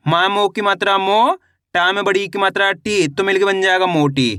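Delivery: rising "मो", falling "टी", whole word "मोटी" falling; spelling drill. Shown as a demonstration. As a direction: stretch "मो" upward, let "टी" fall, then join "मोटी". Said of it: "एक बार फिर से देखिए".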